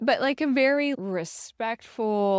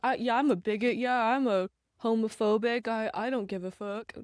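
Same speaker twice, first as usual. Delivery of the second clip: defiant tough guy; 2 semitones higher than usual. Retold or imitated. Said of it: "his m".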